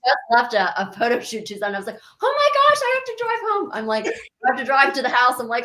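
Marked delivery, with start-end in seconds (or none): 2.2-3.7 high-pitched, louder exclamation of dismay; hammed-up alarm, voice leaping high; mock panic. Guest retells realising she has to drive home, mock panic. Acting out her own alarm.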